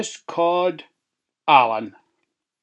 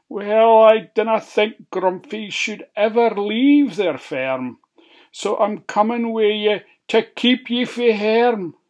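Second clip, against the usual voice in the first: high wee pig; 7 semitones higher, 4 dB louder than usual. Acted.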